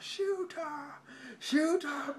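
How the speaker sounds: put-on high, urgent Australian-accented cry; Australian hunter. Australian hunter as a man gets swallowed, urgent Australian cry. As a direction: call it out in an acted Australian accent. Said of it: "This guy's Australian".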